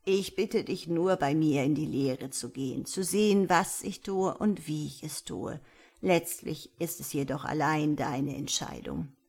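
lightly voiced elder, calmly explaining; a hint of a kindly old woman; old village elder. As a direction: explain patiently as the old teacher.

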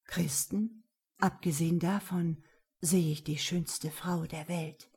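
whispered, secretive reply; quiet answer. Acted. Mohammed whispering back to Anna at the party, hushed. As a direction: answer under your breath, teasing. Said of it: "bevor er leise antwortete".

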